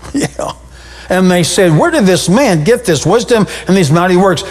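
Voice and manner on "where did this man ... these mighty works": sarcastic. Retold or imitated. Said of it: "They said that sarcastically".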